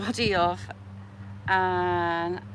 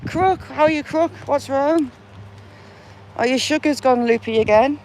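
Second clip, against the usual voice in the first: cheery greeting; 6 semitones higher, 5 dB louder than usual. Pretend. Greeting a grave like a friend.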